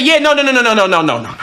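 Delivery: rapid-fire string of mock-panicked noes; panicked backtracking. Friend hears gun threat, backtracks in comic panic.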